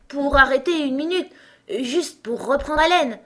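high, loud, winded plea; panting. A narrator's reading. Alice asks to pause and catch breath, panting. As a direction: plead between breaths. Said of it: "dit Alice d'une voix haletante".

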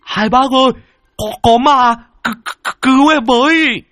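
high, loud panicked cry; yelling for help. A narrator's reading. Lâm Sẹo runs up shouting to the farmers for help. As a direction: scream to the strangers for rescue. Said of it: "lão đã gào lên".

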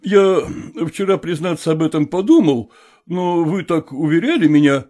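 usual speaking voice

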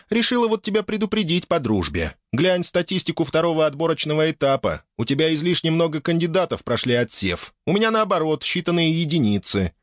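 high, confident dragoness; lightly voiced sultry dragoness.

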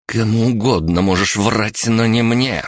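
high, scornful warning; threatening disbelief. A narrator's reading. Threatens captive with axe.

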